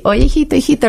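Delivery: high-pitched anxious call, as if searching rooms; calling out for son. Retold or imitated. Mother calling for her son through the apartment, high and anxious. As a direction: call his name high, worried.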